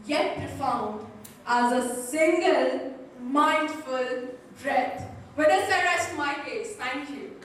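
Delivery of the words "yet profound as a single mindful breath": slow deliberate build. Acted. Speech climax, drawn out.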